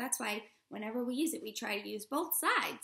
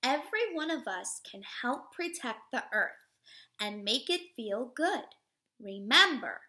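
put-on reading to children; 3 dB louder than usual. Teacher reading a picture book to children, expressive read-aloud. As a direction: read it warmly to a class of little kids.

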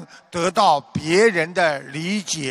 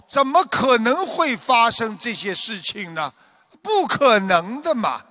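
higher-pitched disbelief; mildly acted protest, voice lifted in denial; refusing to accept; 5 semitones higher than usual. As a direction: imitate someone who won't accept what happened. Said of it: "但是人却不接受地说".

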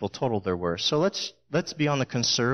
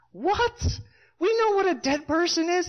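high mocking voice of the mourners, much higher; scoffing mourners. Preacher mocking the mourners, high scoffing voice. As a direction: sneer it like a disbelieving mourner.

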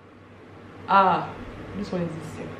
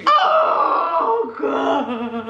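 high, laughing denial; flustered laugh; 10 semitones higher, 3 dB louder than usual. Real, not acted. Roommate caught crying, laughing high and flustered. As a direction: protest while laughing. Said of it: "Nobody ever catches me crying".

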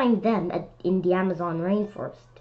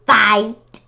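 grouchy challenge; 7 dB louder, slower than usual. Acted. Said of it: "said the grouchy ladybug".

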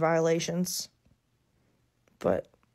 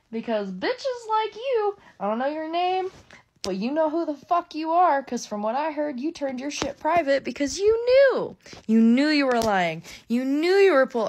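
heated rant, pitched higher; angry rant; 4 semitones higher than usual. Real, not acted. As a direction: let the fury spill out at her. Furious rant at the accuser.

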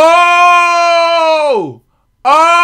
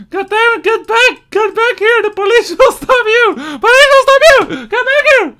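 shouting; 7 semitones higher than usual. Real, not acted. Gamer yells at fleeing character to get back. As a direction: yell to bring him back.

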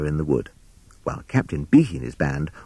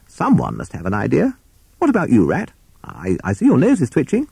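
bluff captain voice; 7 semitones higher than usual. Acted. Captain Beaky questions Rat.

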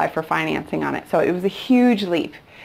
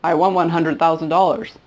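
lightly imitated Lebanese accent; mock Lebanese-accented English; thick Lebanese accent. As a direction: quote the seller with a touch of Lebanese accent. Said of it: "he said in his very thick accent".

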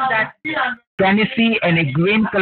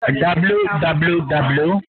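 dictating; much slower than usual. Shown as a demonstration. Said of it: "just type it over there".

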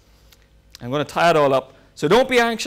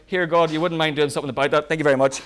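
rushed afterthought prayer; 3 semitones lower, faster than usual. Retold or imitated. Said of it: "my five minutes is near up".

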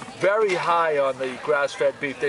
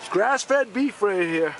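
carnival barker; 5 semitones higher, slower than usual. Pretend. Calling customers to the stall.

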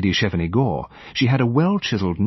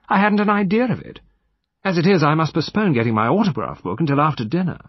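put-on high-pitched, lightly drawling young lady; affected society lady's voice; affected slight drawl; 7 semitones higher than usual. A narrator's reading. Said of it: "came with a slight drawl".

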